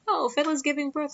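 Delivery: high-pitched imitated relative; imitated happy news-breaking; excited announcement. Family announces the birth, retold.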